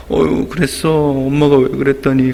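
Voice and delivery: mock-sympathetic dad; playing along with a pout; feigned tearful sympathy. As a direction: soothe a child with put-on commiseration. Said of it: "같이 울상을 이렇게 지어주는".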